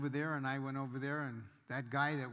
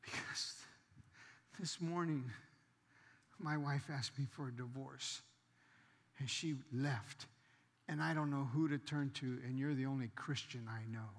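tearful confession; 5 dB quieter than usual. Retold or imitated. Crying bully confides his wife left, subdued and halting. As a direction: imitate a man confiding through tears, understated. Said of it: "the tears were streaming down his face".

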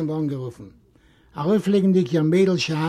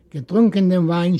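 usual speaking voice

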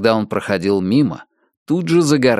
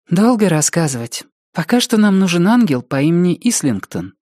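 put-on higher serious girl voice; Door's voice; 6 semitones higher than usual. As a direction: answer gravely like a young girl. Door answers seriously.

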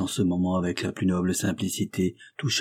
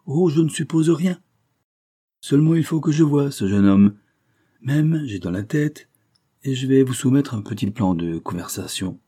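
higher, louder, animated dismissal and planning; brisk, assured adviser; 6 semitones higher, 5 dB louder than usual. Acted. Adviser proposing a plan to the cashier, assured. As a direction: brush off the objection and press on.

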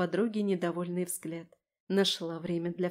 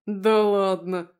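loud, long drawn-out exclamation; delighted disbelief; 8 dB louder, much slower than usual. A narrator's reading. Koval marvels over the phone at the accident news, delighted. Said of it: "восхитился Коваль и заржал".

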